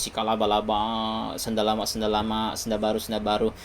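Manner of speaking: soft, dismissive imitation of gibberish; a mocking murmur of made-up tongue; mock babble. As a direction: toss off the nonsense syllables quietly.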